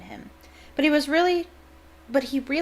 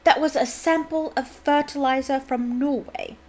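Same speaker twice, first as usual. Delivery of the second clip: flustered; 5 semitones higher, 4 dB louder than usual. Acted. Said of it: "going very red in the face".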